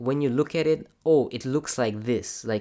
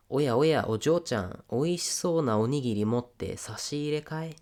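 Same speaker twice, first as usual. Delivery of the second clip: lightly voiced manga villain; 3 semitones higher than usual. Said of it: "he says".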